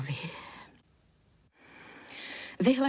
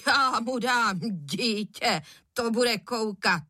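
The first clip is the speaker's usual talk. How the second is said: mild angry grumble; 2 semitones higher, slower than usual. A narrator's reading. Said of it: "Pan Žihadlo vztekle roztrhl krajíc".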